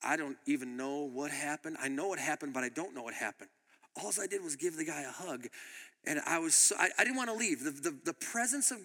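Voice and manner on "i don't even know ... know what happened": low, hushed retold amazement; soft, lower, as if dazed by it; quietly stunned, voice dropped; mesmerized. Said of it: "for about half an hour mesmerized".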